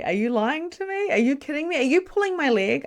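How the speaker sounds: high, incredulous questions; retelling her shock to the client; stunned disbelief. Retold or imitated. Reader asks client in high, stunned disbelief. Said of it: "with my mouth open going".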